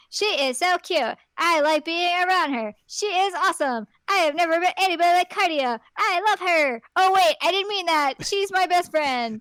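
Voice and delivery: hammed-up adoring enthusiasm; mock gushing. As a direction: blurt it like a smitten best friend. Acting Victor gushing, then backtracking.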